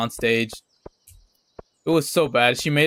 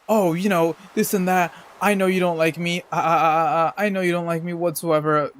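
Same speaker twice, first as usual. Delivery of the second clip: mock upset girl; 4 semitones higher than usual. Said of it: "she's basically just like".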